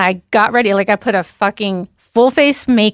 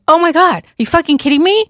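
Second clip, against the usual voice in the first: outraged; 7 semitones higher, faster than usual. Retold or imitated. Furious at dealer on phone.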